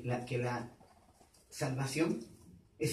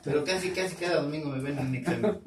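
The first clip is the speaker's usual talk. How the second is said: laughing; faster than usual. Real, not acted. Joking back at congregant, laughter.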